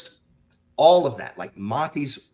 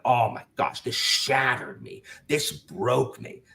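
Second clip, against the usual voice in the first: 1 mock dramatic; slower than usual. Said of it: "I hate people being like".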